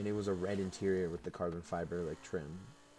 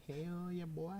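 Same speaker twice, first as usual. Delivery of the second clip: much higher and louder, cheering; excited cheer; 11 semitones higher, 4 dB louder than usual. Real, not acted. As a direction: celebrate payday out loud, way up high. Cheering about his own payday.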